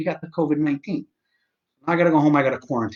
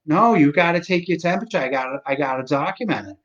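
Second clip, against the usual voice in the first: raised, insistent Massachusetts voice; Massachusetts accent; 4 semitones higher, 4 dB louder than usual. Retold or imitated. Phone woman insists on documenting it, mock Massachusetts accent. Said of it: "she has a Massachusetts accent".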